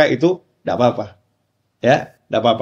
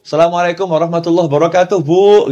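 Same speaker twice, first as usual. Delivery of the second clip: calling out to mother; 4 semitones higher than usual. Retold or imitated. Son calling mother at door.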